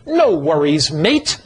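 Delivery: lightly put-on Australian accent; easygoing Australian lilt, rising at the end. Preacher quoting his Australian friends, lightly Australian. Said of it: "they'll say something like this".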